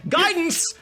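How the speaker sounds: high, loud mock yell from afar; mock scream. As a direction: shout the spell word across the room. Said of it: "just scream it from a distance".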